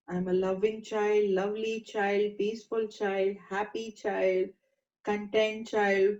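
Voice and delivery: slow, soft mantra-like affirmation; quiet affirmation. Shown as a demonstration. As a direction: murmur it gently, letting each word settle. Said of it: "just keep reminding yourself this".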